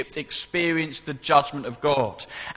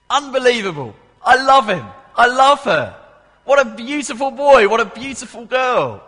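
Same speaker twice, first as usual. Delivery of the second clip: high, loud gushing adoration; delighted father; 8 semitones higher, 8 dB louder than usual. Acted. Preacher voices God delighting in his children like Bert, overjoyed. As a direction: cry out with a doting father's delight. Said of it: "God the Father loves loving Christians".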